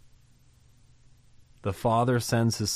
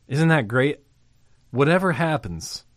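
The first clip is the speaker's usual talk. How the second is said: raised, louder burst of delight; excited exclamation; 5 semitones higher, 5 dB louder than usual. Real, not acted. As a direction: preach it with joy, up and out. Preacher exclaiming.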